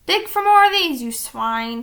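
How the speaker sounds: loud, gruff pirate command; captain tossing gold to his crew; mean pirate order. A narrator's reading. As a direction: sneer it at the crew. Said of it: "he said".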